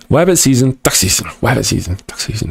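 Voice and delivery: Bugs Bunny hunting-season bit, softening to the end; Bugs Bunny line. Retold or imitated. To chat, quoting the cartoon in a light New York voice. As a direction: toss off the Looney Tunes wabbit line. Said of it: "talking like Bugs Bunny".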